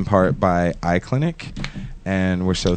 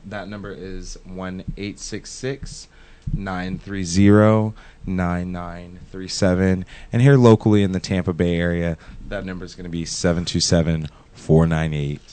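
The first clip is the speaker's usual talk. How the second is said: radio voice. Acted. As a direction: read the number like a radio announcer. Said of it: "I just had to end that in my radio voice".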